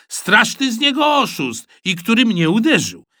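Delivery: loud, high accusing voice; indignant complaint. A narrator's reading. Boy accusing the one who hit him, indignant. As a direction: complain with outrage.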